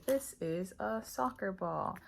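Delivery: put-on slow, clear teacher talk to a child; teacher demo voice. Shown as a demonstration. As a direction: spell it out slowly for a young learner. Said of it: "You say".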